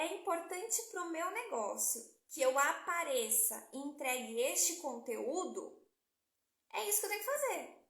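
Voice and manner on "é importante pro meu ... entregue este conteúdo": slow resolved thinking. Retold or imitated. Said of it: "se ela pensa assim".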